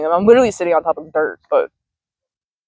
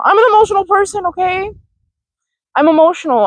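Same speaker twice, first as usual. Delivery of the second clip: mock-defensive; 10 semitones higher than usual. Real, not acted. Defends crying, self-mocking emphasis.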